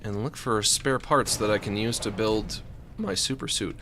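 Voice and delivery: usual speaking voice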